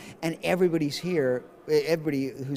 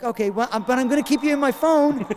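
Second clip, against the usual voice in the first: higher, louder mock fangirl voice; imitated fan; 9 semitones higher, 5 dB louder than usual. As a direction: play a fan brightly insisting. Retold fan insists on keeping photo.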